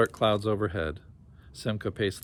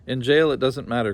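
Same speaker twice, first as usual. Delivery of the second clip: cried out; 2 semitones higher, 6 dB louder than usual. Acted. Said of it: "cried Molly".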